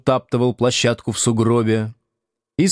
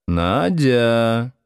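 warning; 2 semitones higher than usual. Acted. Слушкин одёргивает жену, предостерегающе. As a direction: warn her to stop. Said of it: "предостерегающе сказал Слушкин".

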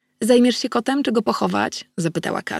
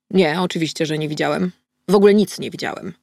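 firm denial. Acted. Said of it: "powiedział twardo".

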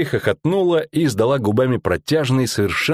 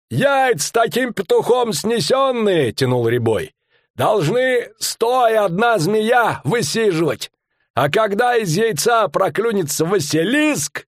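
a pitched-up showman bellowing his tale; fairground barker; 12 semitones higher, slower than usual. Acted. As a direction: sell the monster to the crowd. Showman barker voiced in story.

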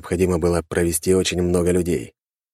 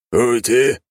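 inhuman mocking question; eldritch horror; 6 semitones higher, 5 dB louder than usual. A narrator's reading. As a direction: creature scoffs, loud. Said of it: "вдруг остановилась фигура".

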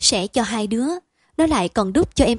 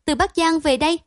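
higher, rising disbelief on Bắc; incredulous; 6 semitones higher, 3 dB louder than usual. A narrator's reading. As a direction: echo his words back in astonishment. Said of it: "Chị cả mở to mắt".

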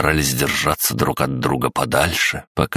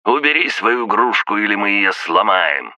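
shouting; 6 semitones higher than usual. Acted. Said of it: "крикнул".

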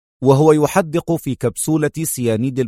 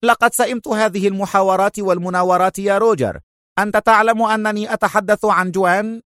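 fed up; 8 semitones higher than usual. A narrator's reading. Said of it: "قال لانسلوت في ضجر".

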